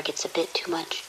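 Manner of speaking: whispered, discreet; hushed aside. Acted. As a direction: lean in and whisper the euphemism. Hushed euphemism for ozone sickness.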